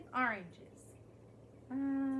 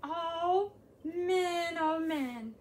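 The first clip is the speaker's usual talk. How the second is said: overjoyed; 2 semitones higher, 5 dB louder, much slower than usual. Acted. Caterpillar overwhelmed by taste.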